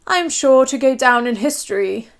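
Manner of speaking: a hint of a boastful bore; prattling Prime Minister. Prime Minister prattling at the Queen. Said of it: "he prattled".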